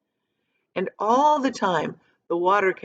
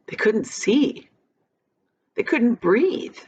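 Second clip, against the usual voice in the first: slower, rising higher each line; dramatic build; 3 semitones higher, slower than usual. A narrator's reading. Dramatic build under waterfall.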